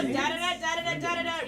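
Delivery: "da-da-da" chanted in even groups of three; rhythm demo. Shown as a demonstration. Host showing players the rhyme metre, "da-da-da" chanted rhythmically. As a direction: beat out "da-da-da" as a verse metre. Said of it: "it's gonna go like this".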